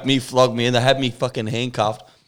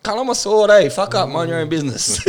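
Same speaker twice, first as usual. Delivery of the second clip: 1 telling him off; 6 semitones higher, 5 dB louder than usual. Retold or imitated. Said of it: "And I was like".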